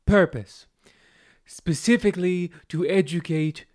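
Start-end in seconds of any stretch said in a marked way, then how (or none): 0.1-0.7 Purpose said carefully, correcting porpoise; corrected pronunciation. Shown as a demonstration. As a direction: say Purpose clearly, fixing the pun. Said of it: "this is a story with porpoise".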